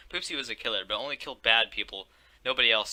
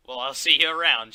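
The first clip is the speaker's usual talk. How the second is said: loud; 2 semitones higher, 11 dB louder than usual. Acted. Mask Girl leaving.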